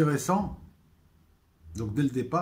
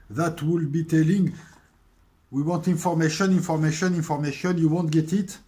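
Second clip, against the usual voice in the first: put-on louder, higher English lines with a French accent; dialogue récité; 4 semitones higher, 5 dB louder than usual. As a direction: replay the series' interrogation as both men. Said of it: "ce dialogue". (dialogue du Prisonnier joué, plus fort et plus aigu)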